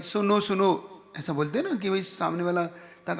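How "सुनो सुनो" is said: slow, higher demonstration of a distant call; half-hearted shout, drawn out to carry; mock calling out. Shown as a demonstration. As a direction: call slowly to someone far off. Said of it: "चिल्ला के बोलता हूँ कि".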